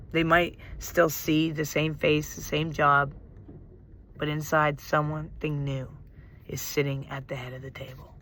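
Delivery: measured closing of a meditation; guided meditation. Real, not acted. Guide tells listeners this is inner healing, guided meditation. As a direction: bring them gently back, pausing between phrases.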